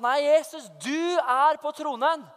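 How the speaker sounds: høyere, kraftig bønnerop som nekter å gi seg; trassig proklamasjon. Retold or imitated. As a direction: proklamer det mot djevelen, dra ut ordene. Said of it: "jeg bare nektet at djevelen skulle ha overtaket". (trassig, proklamerende)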